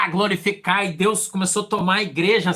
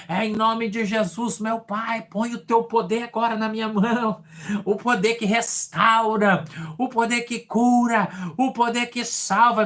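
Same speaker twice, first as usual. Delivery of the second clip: fervent prayer; 4 semitones higher, slower than usual. Retold or imitated. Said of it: "E eu disse assim".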